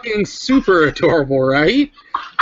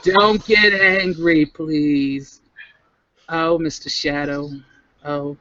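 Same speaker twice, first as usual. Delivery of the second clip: pleading whine; slower than usual. Acted. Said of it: "That sounded like the beginning of a song".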